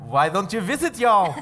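Southern Jewish grandmother. Acted. Host imitates his grandmother asking for visits, Southern Jewish. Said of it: "grandmother was from the South and also Jewish".

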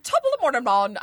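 bad Irish accent sliding into Jamaican. Shown as a demonstration. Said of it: "My Irish accent always goes from leprechaun to Jamaican".

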